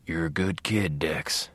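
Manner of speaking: low, soft ghost voice; ghostly whisper. A narrator's reading. Dead father whispering reassurance to his son. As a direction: breathe it like a fond ghost. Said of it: "whispered Harry ... ghost voice".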